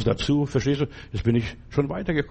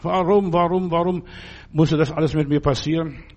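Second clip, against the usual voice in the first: raised, pleading warum, warum; crying out to God. Retold or imitated. Hagar crying out to God in the desert, pleading. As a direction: lift the voice in a desperate plea. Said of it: "schreit sie zu Gott".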